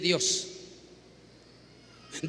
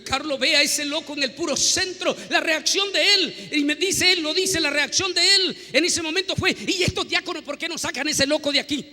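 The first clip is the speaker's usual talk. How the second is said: indignant reaction; 5 semitones higher, 3 dB louder than usual. Acted.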